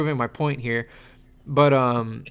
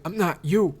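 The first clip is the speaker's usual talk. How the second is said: deadpan ad line. Retold or imitated. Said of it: "he just ends it with".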